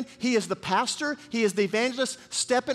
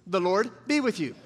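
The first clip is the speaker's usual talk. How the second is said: Boaz greeting. Shown as a demonstration. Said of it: "Let's try it again".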